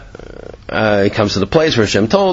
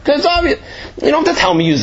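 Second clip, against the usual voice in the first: much higher, it's obvious as if self-evident; emphatic; 12 semitones higher, much faster than usual. Real, not acted. Teacher tells students the answer, emphatic. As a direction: stress how plain the answer is.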